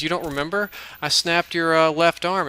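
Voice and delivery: put-on bubbly young vampire girl chattering; girl's voice. Brunette girl recounts breaking arm.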